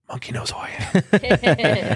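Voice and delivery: slow, breathless starstruck whisper; whispered in disbelief that Monkey knows him; awed whisper. Retold or imitated. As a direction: hush it like you can't believe it. Starstruck inner thought about Monkey.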